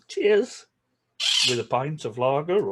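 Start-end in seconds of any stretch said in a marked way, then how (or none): 0.1-0.7 toast cheers. Shown as a demonstration. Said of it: "we do say cheers as in".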